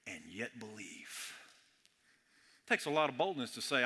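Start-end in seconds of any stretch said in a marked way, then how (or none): 0.1-0.9 drops to a near-whisper; hushed close of the blessing; hushed ending. Acted. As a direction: let the promise fall quiet. Blessing trails to a hush.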